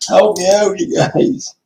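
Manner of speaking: high, loud appeal for help; loud plea. Real, not acted. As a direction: call out pleadingly to the viewers. Begs viewers for giveaway items.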